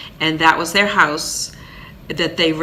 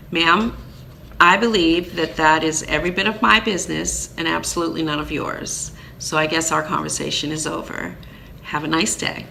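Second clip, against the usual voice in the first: firm put-down; 4 dB quieter than usual. Retold or imitated. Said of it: "I knew where she was going with this".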